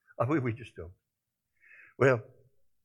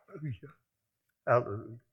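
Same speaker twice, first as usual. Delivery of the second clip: soft hallelujah; 6 dB quieter, faster than usual. Acted. Soul's soft praise after build.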